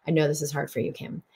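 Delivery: soft, comforting words to yourself, trailing off; tender self-compassion. Retold or imitated. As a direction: comfort yourself like a friend would. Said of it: "I really need that compassion, that encouragement".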